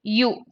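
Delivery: u said as "you", with a y glide; u sounded out as a lone syllable; sound demonstration. Shown as a demonstration. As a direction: isolate u, the opening sound of "useful". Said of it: "The sound here is".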